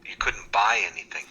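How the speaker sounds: incredulous whispered echo. Real, not acted. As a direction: whisper it back in disbelief. Echoing in disbelief.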